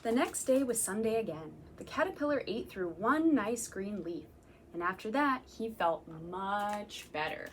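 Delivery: gentle storytime read-aloud; reading to children. Acted. Reading picture book to children.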